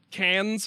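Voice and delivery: "Cairns" as CANS, no r; local pronunciation. Shown as a demonstration. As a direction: drop the r in "Cairns". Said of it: "ignore some of the letters".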